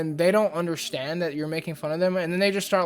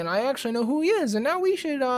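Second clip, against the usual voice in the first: higher-pitched, hammed-up mock Sony exec voice; mock studio exec; 6 semitones higher than usual. Vlogger mocking Sony's reasoning in a higher, hammed-up exec voice. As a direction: pitch it up like a smug clueless exec.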